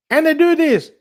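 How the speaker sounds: high, loud mock preacher line; imitating preacher. Quoting Minister John's live show, high hammed-up mimic. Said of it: "he was like".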